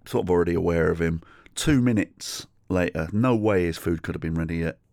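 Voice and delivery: ordinary delivery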